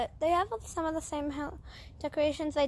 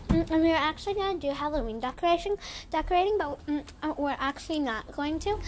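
talking while chewing gum; faster than usual. Real, not acted. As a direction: speak around a piece of gum. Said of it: "I'm chewing gum".

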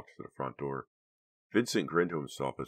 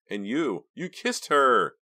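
much higher, louder and slow accusation; upset accusation; 9 semitones higher, 9 dB louder, slower than usual. A narrator's reading. Karina accuses Vincent of kissing Delia, upset. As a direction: fling the charge at him. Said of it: "never seen Karina so upset".

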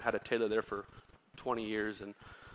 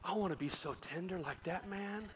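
retold prayer; 7 semitones higher, 4 dB quieter than usual. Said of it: "And I said".

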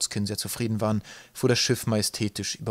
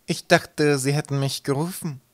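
higher-pitched innocent mate; 4 semitones higher, 4 dB louder, slower than usual. A narrator's reading. Mate excusing himself to the furious captain, innocently. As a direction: play the blameless servant. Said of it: "sagte der Mart unschuldig".

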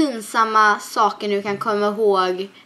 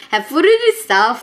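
dad serving; 4 semitones higher, 7 dB louder, slower than usual. Retold or imitated. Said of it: "då brukar jag alltid så här".

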